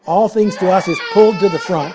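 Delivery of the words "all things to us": "All things to us" said firmly as the key phrase; emphatic. Shown as a demonstration. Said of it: "it has the highest emphasis".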